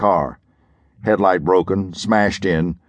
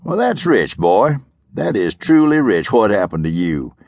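sarcastic sheriff. Acted. Sheriff mocking Parker's question, lightly sarcastic. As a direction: savour the irony, mildly scornful. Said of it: "the sheriff said".

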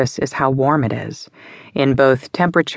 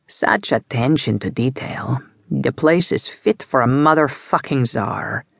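urbane crime boss Micah. Acted. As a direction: relish every word like a connoisseur mobster. Micah admiring the restaurant.

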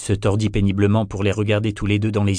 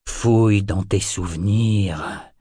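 cavernous voice; slower than usual. Acted. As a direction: order it slowly from a cavern. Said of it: "ordonna Molkin d'une voix caverneuse".

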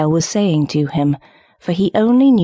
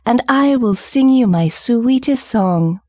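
high, slow, lilting nightingale; coaxing little bird; cried plea; 6 semitones higher than usual. A narrator's reading. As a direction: draw the promise out on a raised pitch. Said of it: "she cried".

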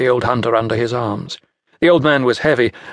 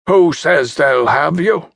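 put-on old hunter; 4 semitones higher, 3 dB louder, slower than usual. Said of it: "the old hunter asked".

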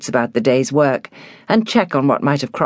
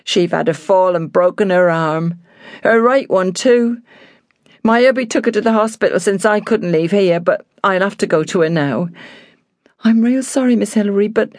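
higher-pitched country housekeeper, distressed; upset housekeeper; 6 semitones higher than usual. A narrator's reading. Housekeeper explains her mother's fall to Hilary, upset. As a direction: play the apologetic, worried servant.

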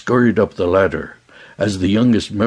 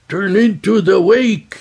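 high, sharp shouted command; yelled order; 10 semitones higher than usual. A narrator's reading. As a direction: bark the order over the wind. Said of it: "Ilyas yelled".

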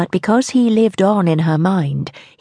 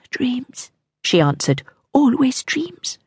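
weary queen voice; 7 semitones higher, 3 dB quieter, slower than usual. Acted.

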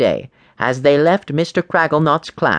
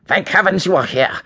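high, put-on teacher's voice; relieved teacher, pitched up; exclaiming with relief; 5 semitones higher than usual. A narrator's reading. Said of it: "he exclaimed".

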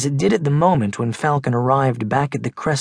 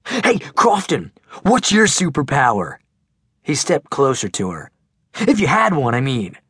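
put-on big teasing kid; 2 semitones higher than usual. Max pestering Megan.

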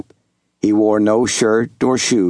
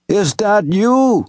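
higher, lightly voiced old Southern servant; old servant calling out; 9 semitones higher, slower than usual. Old servant Wash hailing young Master Jubal, lightly voiced. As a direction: call across the clearing in a gentle old man's voice.

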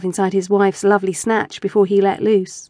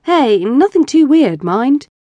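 slow, louder, higher bluster; 4 semitones higher, 4 dB louder, slower than usual. Acted. Husband blusters at his teasing wife. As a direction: puff up in mock protest. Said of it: "he blustered".

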